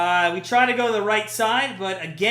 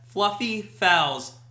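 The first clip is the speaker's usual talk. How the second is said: FLUFFY FOULS slowly, each word set apart; slow and careful; 2 semitones lower, much slower than usual. Shown as a demonstration. Streamer retries the tongue-twister, FLUFFY FOULS slow and careful. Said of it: "I can't try to say that fast".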